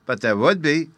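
put-on child's high excited cry; cried out. A narrator's reading. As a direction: cry it out as little Bruno. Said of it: "cried Bruno".

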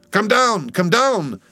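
high, urgent yell; yelled warning. A narrator's reading. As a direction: yell it upward to someone aloft. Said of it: "yelled the seaman to Daggoo".

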